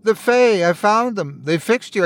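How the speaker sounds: high, teary disbelief; lightly weeping old man; through tears. A narrator's reading. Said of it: "through his tears".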